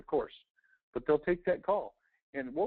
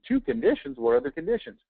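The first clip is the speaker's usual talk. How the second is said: curious homeowner; 4 semitones higher, 3 dB louder than usual. Retold or imitated. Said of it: "they're thinking".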